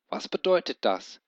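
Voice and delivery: hohe verwirrte Frage, leicht gestammelt; verwirrt stammeln. A narrator's reading. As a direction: unsicher nachfragen. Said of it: "stammelte er verwirrt". (Ben fragt verwirrt und ängstlich)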